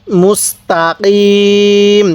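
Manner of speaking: মুস্তাকিম with throat push on the q; careful tajweed demo. Shown as a demonstration. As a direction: stretch the final i of মুস্তাকিম. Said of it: "কফটা উচ্চারণের সময় গলায় একটু ধাক্কা দিব".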